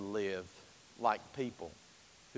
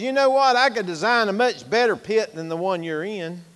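eager engineer; 5 semitones higher, 6 dB louder, faster than usual. Acted. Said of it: "engineer comes along and says".

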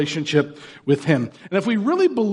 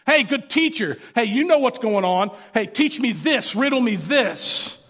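mock-casual, cocky high voice; patronizing; 5 semitones higher than usual. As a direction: talk down to the teacher with a smirk. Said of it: "it's kinda disrespectful. It's kinda patronizing".

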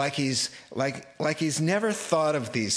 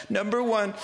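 mocking sarcasm; 6 semitones higher than usual. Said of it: "I'm getting angry reading this".

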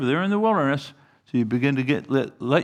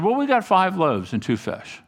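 a touch of sarcasm; mildly sarcastic comeback from a doubter; 3 semitones higher than usual. Acted. Disciples answering Jesus about the food, mildly sarcastic. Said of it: "maybe there's a degree of sarcasm".

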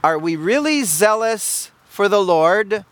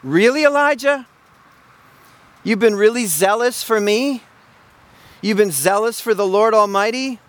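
incredulous God. Retold or imitated. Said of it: "the Lord in his own mind was asking".

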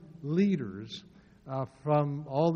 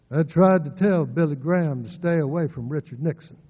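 a lightly voiced old uncle, a bit louder; Uncle Bill impression; 6 dB louder than usual. Preacher quoting his uncle's warning, a light impression. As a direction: quote the old man, barely moving the lips. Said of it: "I remember him telling me".

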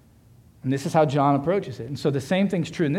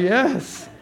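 high, triumphant little yes; pitched-up mock celebration; gleeful cheer; 8 semitones higher than usual. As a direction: cheer it like a secret victory. Acts out his first thought, cheering.

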